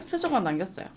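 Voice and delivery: normal talking voice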